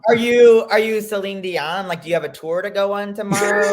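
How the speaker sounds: high, incredulous mock questioning; exasperated retort. Host mocking the singer's worry about her voice, incredulous. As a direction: grill the absent singer in acted disbelief. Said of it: "This made me so mad".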